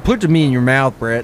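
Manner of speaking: menacing low voice. Acted. Forcing meat on Brett.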